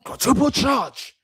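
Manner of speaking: slow, mostly voiceless imitation; slow, husky mock boast; mock bass voice. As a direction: drag out the boast like a slogan. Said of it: "you have bass in your voice".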